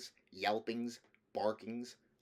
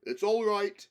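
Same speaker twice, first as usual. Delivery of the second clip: high, much louder joyful call; joyous shout; 11 semitones higher, 10 dB louder than usual. A narrator's reading. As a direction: call out gladly across the courtyard. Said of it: "shouted Aslan joyously".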